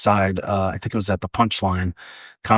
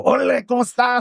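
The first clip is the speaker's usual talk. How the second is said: high, exaggerated Latino comic accent; much higher, stagey Latino accent; put-on Latino accent; faster than usual. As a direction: greet the crowd in a hammed-up Latino accent. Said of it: "Like, I had the accent".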